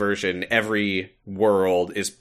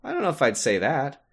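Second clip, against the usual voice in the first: lightly voiced sly schemer, higher; a hint of a scheming villain; sly, higher mock Axel; 5 semitones higher than usual. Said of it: "And Axel's like".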